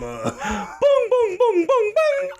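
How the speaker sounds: high chanted booms with laughter; rhythmic chant. Retold or imitated. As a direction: beat it out like a drum. Imitating hammer hits.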